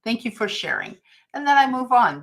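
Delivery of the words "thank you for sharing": polite brush-off. Retold or imitated. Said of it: "I just say".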